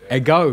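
Ego as eh-GO, weight on the end; stress on the omega. Shown as a demonstration. Teacher explaining the accent, Ego stressed on the last syllable. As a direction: lean on the final O of Ego. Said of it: "because there's an accent on the omega".

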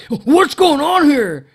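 high, loud, slow alarmed question; managers asking. Retold or imitated. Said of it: "they're like".

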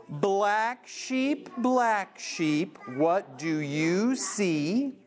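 slow, sing-song picture book reading; read-aloud to kids. Shown as a demonstration. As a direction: draw out each line for little listeners.

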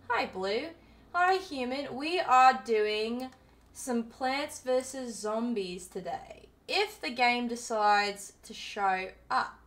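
chatty, put-on Australian accent; Aussie accent. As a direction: greet viewers in put-on Aussie. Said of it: "You always like an Aussie accent".

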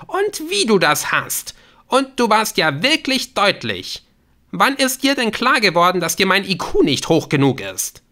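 very high, loud accusation; angry, scornful. A narrator's reading. Hurt woman accusing her caller, angry and scornful. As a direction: fling bitter sarcasm at him. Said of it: "fauchte sie".

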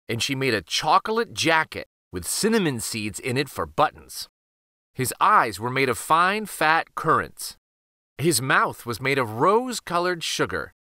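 put-on measured, lilting read-aloud to young children; children's story narration. A narrator's reading. Reading The Gingerbread Boy to children, storybook narration. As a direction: read a picture book aloud, phrase by phrase. Reads picture book to children.

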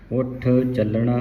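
ਉੱਠ with a firm held ਠ, ਚੱਲਣਾ with doubled ਲ; tight doubled consonants. Shown as a demonstration. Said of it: "ਕੱਸ ਕੇ ਬੋਲਣਾ ਹੈ". (ਉੱਠ ਚੱਲਣਾ ਕੱਸ ਕੇ ਬੋਲੋ)

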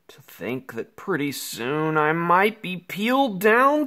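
fearful hushed whisper; scared whisper. Acted. Kid scared of peeling to the bone, whispering. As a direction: breathe it out in fright.

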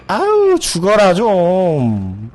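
high, loud, dragged-out frustration; exasperated yell. Real, not acted. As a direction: beg the enemy to just die. Frustrated at enemy not dying. (느리고 큰 짜증 섞인 외침)

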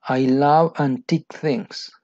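slow with a falling love; slow model line. Shown as a demonstration. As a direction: read it slowly for learners. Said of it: "dialogue line read twice".

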